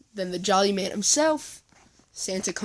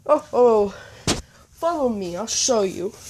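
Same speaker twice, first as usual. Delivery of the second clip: eager Santa; 7 dB louder than usual. Acted. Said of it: "Santa's like".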